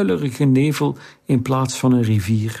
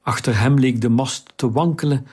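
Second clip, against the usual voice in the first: ordinary delivery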